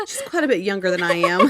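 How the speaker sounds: laughing through the words; teasing laugh while talking; giggling about the age gap. Real, not acted.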